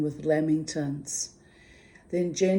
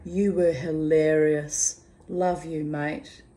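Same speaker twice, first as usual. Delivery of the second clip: upbeat Aussie read, louder; cheerful mateship tone; reading her cheery reply; 4 dB louder than usual. Retold or imitated. Reading her reply to the friend, cheery and loud. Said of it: "I replied".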